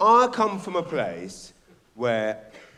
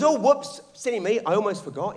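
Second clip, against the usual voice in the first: mock forgetful editor; 6 semitones higher, 3 dB louder than usual. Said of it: "Then he goes".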